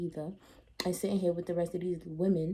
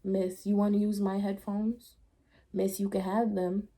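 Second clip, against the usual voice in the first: mock pleading argument; 4 dB louder than usual. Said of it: "So I kept arguing with the lady".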